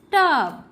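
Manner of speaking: टब ending on a voiced ब. Shown as a demonstration. Teacher showing learners the B sound, टब with final ब. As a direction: finish टब on a clear ब. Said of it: "ब के रूप में किया जाता है".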